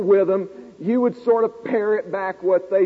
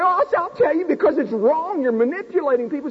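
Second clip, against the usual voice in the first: high, sharp, quick accusation; indignant retort; 6 semitones higher than usual. Retold or imitated. Student accusing the professor of manipulation, sharp and high. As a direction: spit out the accusation, higher. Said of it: "retort to professor".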